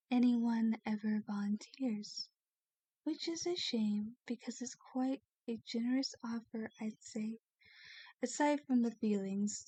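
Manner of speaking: softly reassuring the captive listener; soft confiding. Acted. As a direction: drop the voice and confide. Vampire explains softly to captive.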